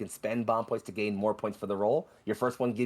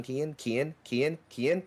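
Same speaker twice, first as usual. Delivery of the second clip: calling out; 5 semitones higher, slower than usual. Acted. Name called repeatedly, rising.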